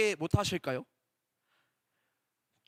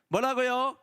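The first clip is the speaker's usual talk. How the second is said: prompting question; 4 semitones higher, 4 dB louder than usual. Real, not acted. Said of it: "asks children to answer".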